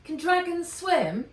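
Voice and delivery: high, loud alarmed shout; shouted question. A narrator's reading. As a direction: yell the question in fear. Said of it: "she shouted".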